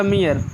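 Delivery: "मियर" as mee-ar, falling; ee-a ending. Shown as a demonstration. Teacher applies the rule for learners, "मियर" as mee-ar. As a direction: model "मियर" with ee gliding into a. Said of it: "उसी तरह से पढ़ा जाएगा".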